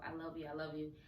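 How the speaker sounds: soft, hushed I love you; quiet self-affirmation. Retold or imitated. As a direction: murmur it to the mirror. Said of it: "I'm telling myself".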